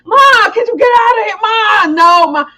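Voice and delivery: a hint of an embarrassed teenager; teen daughter. Mother imitating teen daughter shooing her away. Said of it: "teen daughter quoted".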